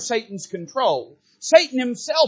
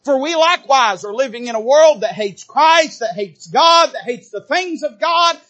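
fervent proclamation; 3 semitones higher, 6 dB louder than usual. Acted. Preacher warning the congregation, loud fervent proclamation. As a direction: thunder it out to the congregation.

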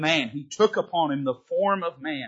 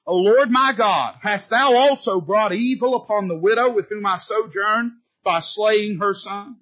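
crying out; 5 semitones higher, 4 dB louder than usual. Acted. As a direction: call up to heaven in distress. Elijah's cry to God.

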